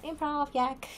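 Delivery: a hint of a jingle announcer; sing-song the show title like an intro; podcast intro voice. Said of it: "It's like".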